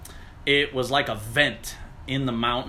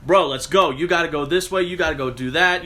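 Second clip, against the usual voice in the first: urgent command; 4 semitones higher, 4 dB louder than usual. Retold or imitated. Giving orders after the drowning.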